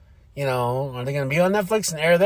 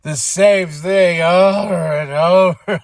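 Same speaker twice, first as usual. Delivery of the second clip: bored mockery; 3 semitones higher, 5 dB louder, much slower than usual. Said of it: "Drew's like".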